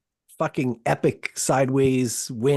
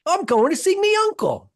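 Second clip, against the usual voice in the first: very high, hammed-up Cockney; terrible Cockney accent; 4 dB louder than usual. Shown as a demonstration. Showing co-host his accent, terrible Cockney. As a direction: squeal out a bad Cockney line. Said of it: "use your terrible Cockney accent".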